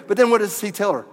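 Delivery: usual speaking voice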